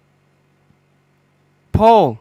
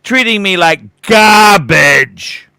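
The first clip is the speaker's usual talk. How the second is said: indignant; 6 dB louder, slower than usual. Real, not acted. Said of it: "indignant complaint about salespeople".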